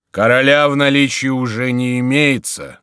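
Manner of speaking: high, loud, sustained announcement; calling from window. A narrator's reading. Monk answering Crillon from the window, calling out. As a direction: call it down from a window. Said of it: "отвечал ему Горанфло из окна".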